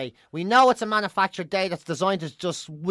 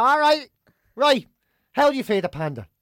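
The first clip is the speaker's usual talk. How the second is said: curious; 4 semitones higher, 6 dB louder than usual. Retold or imitated. Curious to Siri.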